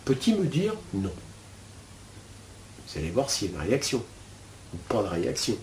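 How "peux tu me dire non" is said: hushed, gentle asking; soft inner question. Shown as a demonstration. Teacher to students, asking the inner voice: hushed and gentle. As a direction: ask your inner voice softly, almost to yourself. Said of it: "vous continuez".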